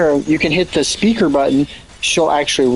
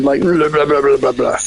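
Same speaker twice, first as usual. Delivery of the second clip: imitating muffled voice. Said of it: "you sounded, like, smothered".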